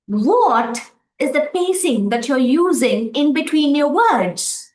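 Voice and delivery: "What" stressed, words grouped into clusters; phrased in word clusters; clustered phrasing. Shown as a demonstration. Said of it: "I'm grouping the words. I'm giving pace".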